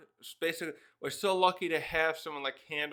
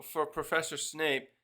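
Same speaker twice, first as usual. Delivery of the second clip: drawn-out title. Shown as a demonstration. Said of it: "Harry would always just say, "Pro".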